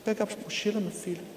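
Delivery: mother asking her son without yelling; speaking softly. Shown as a demonstration. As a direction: hush it down, tender and quiet. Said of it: "É assim que mamãe vai falar agora".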